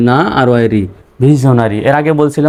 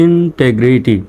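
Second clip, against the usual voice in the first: slow "integrity" in two chunks; teacher's careful repeat; halfway joined; much slower than usual. Shown as a demonstration. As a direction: join "integrity" up slowly, in then tegrity. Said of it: "reading পড়ে আসি".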